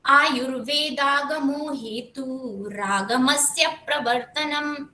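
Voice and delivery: slow unbroken Sanskrit chant; slow recitation without pausing between words; flowing shloka recitation. Shown as a demonstration. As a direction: recite the verse in one smooth flow, slowly. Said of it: "flow में श्लोक बोला एकदम".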